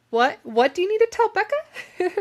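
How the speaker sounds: playful high imitation of a curious friend; imitated eager curiosity. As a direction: squeal it like a nosy coworker. Imitating coworker who overheard, eager curiosity.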